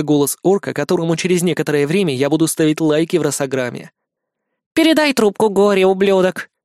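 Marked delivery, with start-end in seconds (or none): 4.7-6.5 barbarian. Acted. Lana rudely demanding on phone.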